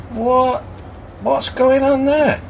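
high-pitched disbelief; astonished pub customer. Acted. Pub customer asks landlord about the card-playing dog, astonished. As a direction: question it in a high, baffled voice.

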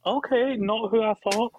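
mock surprise. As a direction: play a faintly stunned, sarcastic shrug. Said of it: "that I'm like".

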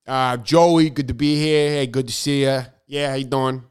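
put-on light New York wise-guy accent; a hint of New York tough-guy accent; Big Joey. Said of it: "Big Joey came out".

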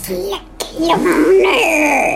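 mumbled. Real, not acted. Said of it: "say it in a clear voice".

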